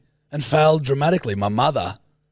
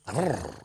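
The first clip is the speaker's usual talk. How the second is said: short low growl; 4 semitones lower, 8 dB quieter than usual. Shown as a demonstration. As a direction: rumble a grrr in the throat. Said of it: "Can you go like grrr".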